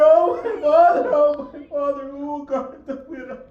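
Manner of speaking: the daughter keens over her martyred father; tearful lament. Acted. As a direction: wail it with tears in the voice. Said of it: "she starts screaming and kissing".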